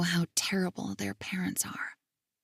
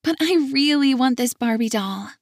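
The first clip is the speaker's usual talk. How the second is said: put-on much higher child plea; begging little girl; 5 semitones higher, 4 dB louder than usual. Little girl begging grandpa for a toy, high. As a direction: pitch way up like a pleading child. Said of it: "she says".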